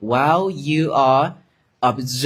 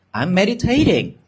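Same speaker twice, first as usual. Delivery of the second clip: mock snippy excuse; 6 semitones higher than usual. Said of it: "You don't have to say".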